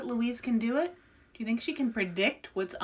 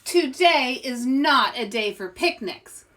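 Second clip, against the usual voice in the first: loud, higher mystic pronouncement; loud, lofty fortune teller pronouncement; grand announcement; 4 semitones higher, 8 dB louder than usual. Acted. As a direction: announce it like a stage seer. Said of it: "announced the Great Louise".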